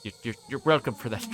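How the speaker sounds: ordinary talk, nothing marked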